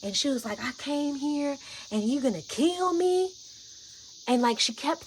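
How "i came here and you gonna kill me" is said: high, slow, aggrieved disbelief; imitated accusation. Imitating an angry friend who feels endangered, high slow accusation. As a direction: imitate someone accusing you of betrayal. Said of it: "I'm mad".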